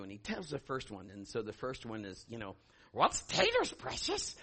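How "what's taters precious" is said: high, hissing creature voice fading to a whisper; Gollum impression. Preacher voicing a demon as Gollum, high hissing creature voice. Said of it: "That was my Gollum impression".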